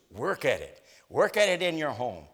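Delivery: preacher urging the flock to pursue peace, insistently; preaching exhortation. Acted. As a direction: drive the point home line by line. Repeated exhortation.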